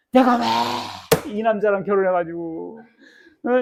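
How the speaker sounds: high, loud mock grumbling of a spouse; "I married him?" whined loud; resentful complaint. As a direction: act out a bitter wife's complaint.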